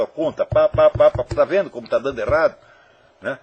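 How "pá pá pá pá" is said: pá, pá, pá, pá in loud, even beats; syllable-counting beat. Shown as a demonstration. Teacher showing how to count syllables, "pá" punched loudly on every beat. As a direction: hammer out each "pá" as one counted syllable. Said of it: "contar a sílaba".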